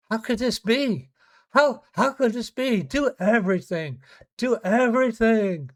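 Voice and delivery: mock drunk family insisting the doctors do everything; demanding family. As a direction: hammer it home like a desperate relative.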